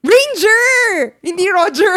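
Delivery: loud, high cry of correction; emphatic correction. Real, not acted. Correcting someone who said Roger, loud and emphatic.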